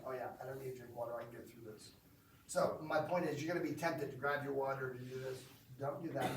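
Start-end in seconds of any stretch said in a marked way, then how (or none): 0.1-1.9 fast, softer mock relief fading away; breezy relief, trailing off; imagined relief. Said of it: "You're like".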